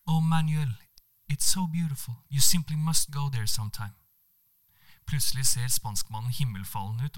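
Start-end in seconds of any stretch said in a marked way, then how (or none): 0.1-3.9 higher, lightly voiced gushing; light gushing Monica. Monica urging Manuel to visit, lightly gushing. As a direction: gush about the place, lightly.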